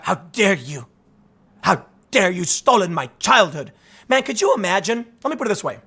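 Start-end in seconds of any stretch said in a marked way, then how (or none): 0.0-3.7 imitating an indignant scold, not truly shouting; mock scolding shout. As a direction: scowl through a drawn-out mock reproach. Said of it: "Greta scowl in your face and shout".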